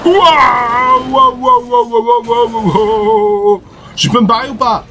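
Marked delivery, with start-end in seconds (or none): 0.0-3.6 excited waouhs. Real, not acted. Gamer startled by the boss, crying out high. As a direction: yelp in alarm as the boss charges.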